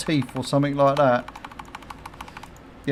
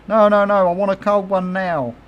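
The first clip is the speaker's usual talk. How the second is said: higher and louder mock tantrum; hammed-up wife demanding it now; pitched-up mock wife tantrum; stroppy wife; 6 semitones higher, 4 dB louder than usual. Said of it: "she'd go".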